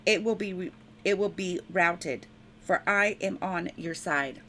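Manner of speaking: measured, solemn reading of scripture; preacher reading Isaiah to the congregation, solemn. Acted. Preacher reads Isaiah aloud to church, solemn proclaiming.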